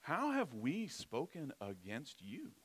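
put-on lightly whined, slow teen question; a hint of a petulant preteen; whiny teenager voice. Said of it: "whiny, petulant ... teenager voice".

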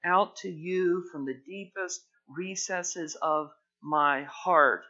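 slow, earnest cry from the heart; slow, heartfelt crying out to God; heartfelt prayer. Shown as a demonstration. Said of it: "you just say".

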